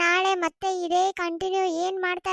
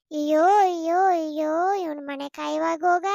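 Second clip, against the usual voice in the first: mock wailing; 3 semitones lower, 4 dB louder than usual. Wife wails at husband's betrayal.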